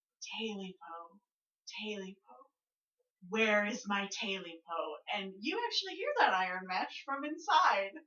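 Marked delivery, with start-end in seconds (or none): 0.2-5.0 voice fading into the distance, quieter and slower. Game master voicing a voice the players hear moving away, fading into the distance. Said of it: "voice getting further away".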